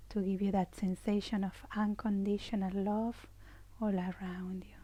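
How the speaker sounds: soothing, even meditation voice; gentle imagery, softening as it goes; guided meditation. Real, not acted. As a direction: lull them into safety and rest.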